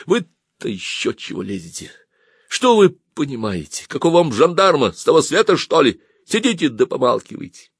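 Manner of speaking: irritated officer, pitch rising then settling; curt, annoyed put-down; sharp, angry retort. A narrator's reading. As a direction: snap back at a meddling woman. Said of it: "обозлившись, внезапно ответил ей резко".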